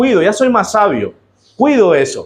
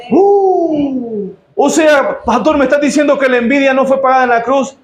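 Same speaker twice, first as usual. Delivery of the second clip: mock churchgoer; 5 semitones higher than usual. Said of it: "No, sinvergüenza".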